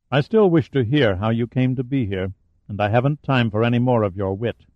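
lightly voiced sardonic villain; a hint of a mocking giant; sardonic giant's voice. Delphi interrogating Pitt.

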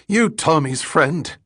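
high, accusing challenge; angry. A narrator's reading. Ragged man asking again about Tommy, angrily. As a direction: demand it in a high-pitched, angry voice. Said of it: "he asked again angrily".

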